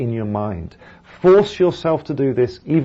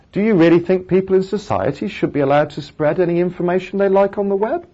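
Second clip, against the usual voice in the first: quick, raised pitch climbing to a high "web"; rhetorical question rise; 7 semitones higher, faster than usual. Shown as a demonstration. Teacher demonstrating a rhetorical question, brisk rising intonation up to "web". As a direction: push the tune up and end high on "web". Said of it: "it goes up".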